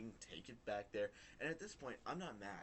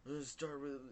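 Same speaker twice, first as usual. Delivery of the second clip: higher, louder aggressive outburst; angry start; 7 semitones higher, 6 dB louder than usual. Retold or imitated. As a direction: start picking a fight. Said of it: "getting all angry".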